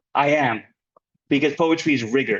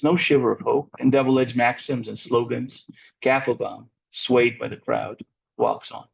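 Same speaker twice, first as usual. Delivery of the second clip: poem reading; 2 semitones lower than usual. Real, not acted. Poet reading own long poem to a class, measured recital. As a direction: read the poem evenly, voice falling at line ends.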